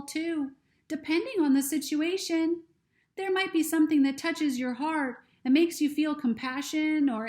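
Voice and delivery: ladybug voice. Acted. Ladybug explains at length.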